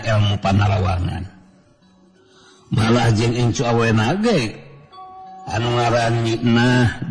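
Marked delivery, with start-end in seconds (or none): none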